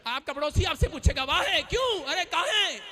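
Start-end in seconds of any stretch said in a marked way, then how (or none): 1.2-2.8 mock curious neighbour, pitched higher. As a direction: play the nosy neighbour asking why, lightly. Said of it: "अलग-अलग भाषाएं पूछ रहे हैं".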